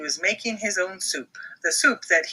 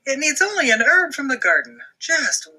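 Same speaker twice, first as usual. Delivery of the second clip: fast high duck voice; quick high duck chef; Max the duck; 8 semitones higher, 3 dB louder than usual. Acted. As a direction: hurry it out like a busy little chef. Max character voice.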